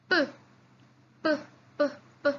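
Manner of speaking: p said alone, with no voice; teacher demonstrating unvoiced p; unvoiced sound. Shown as a demonstration. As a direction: pop p out with just breath. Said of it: "you're not using your sound".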